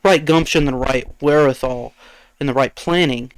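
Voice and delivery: even, measured explainer delivery; reading off a script. Real, not acted. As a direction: deliver it like a prepared speech. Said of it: "Sounded like you just read off of the script".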